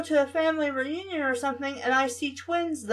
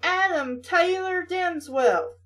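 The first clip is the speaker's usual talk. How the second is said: slow Southern drawl on the full name, higher; southern accent; 5 semitones higher than usual. Acted. Angry mother calling her son, in a Southern accent. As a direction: call him out with a Southern twang. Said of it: "suddenly got very southern there".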